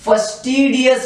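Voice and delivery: फस्टिडियस said clearly as a model; careful pronunciation. Shown as a demonstration. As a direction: pronounce फस्टिडियस distinctly for the class. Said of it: "अच्छे से pronounce करें इस word को". (फस्टिडियस का साफ़ उच्चारण)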